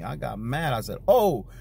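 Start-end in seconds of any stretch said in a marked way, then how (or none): 1.1-1.5 retold angry retort. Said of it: "I got angry".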